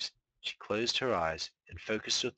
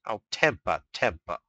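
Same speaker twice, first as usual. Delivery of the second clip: flat; 4 dB louder than usual. Acted. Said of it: "he said flatly".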